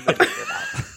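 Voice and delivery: very high, squeaky creepy doll. Pretend. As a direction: squeak it like a haunted toy.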